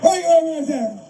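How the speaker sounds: calling out across a distance; shouting out to Cooperstown; calling from far away. Real, not acted. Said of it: "Are you listening out there in Cooperstown".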